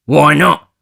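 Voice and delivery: high, loud question; Nancy. Acted. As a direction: ask up high. Nancy asks.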